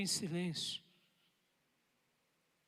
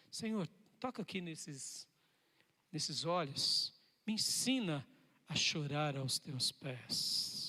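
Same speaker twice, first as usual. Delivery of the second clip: humble plea; 3 semitones lower, slower than usual. Acted. Modelled humble prayer to God.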